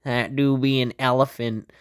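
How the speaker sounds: slow, put-on old-timey voice for Caesar; mock Caesar. Host voicing Caesar marveling at an elephant, slow hammed-up old-timey voice. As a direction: drag out each word like a goofy ancient ruler. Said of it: "Caesar's like".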